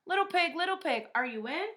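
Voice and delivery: loud, high call to the pig. Acted. Wolf calling out at the pig's brick door. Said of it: "I called".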